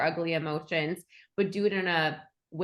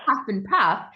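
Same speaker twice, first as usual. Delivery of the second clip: huff and puff; 6 dB louder than usual. Shown as a demonstration. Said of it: "You make that, like".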